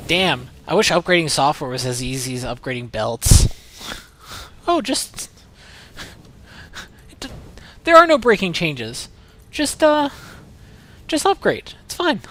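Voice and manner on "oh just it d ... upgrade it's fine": high, loud smug reassurance; squeaky know-it-all mimicry; mocking developer voice. Mocking software devs' reassurances.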